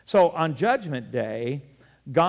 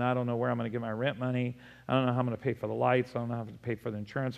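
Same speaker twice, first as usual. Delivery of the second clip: worried rush; 4 dB quieter, much faster than usual. Retold or imitated. Voicing a worried churchgoer.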